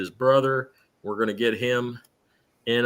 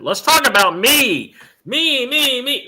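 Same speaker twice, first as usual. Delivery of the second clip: higher, louder, self-adoring "me, me, me"; playful mock vanity, climbing higher on each "me"; mock narcissist; 12 semitones higher, 7 dB louder than usual. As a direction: ham up a vain diva gushing about herself. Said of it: "I slipped into narcissism land".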